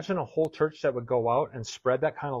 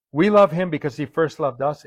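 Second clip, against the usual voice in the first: proclaimed scripture; 6 dB louder than usual. Acted. Same verse proclaimed loudly.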